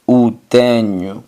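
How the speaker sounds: O tenho as u TE-nyu; Portuguese O tenho. Shown as a demonstration. Teacher contrasts Spanish and Portuguese, clear model. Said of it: "Lo tengo".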